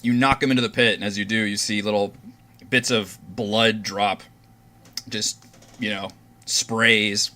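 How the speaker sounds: measured scene-setting with pauses; game master narration. Acted. Game master tells players how Orvix falls, measured narration. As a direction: describe the action deliberately, beat by beat.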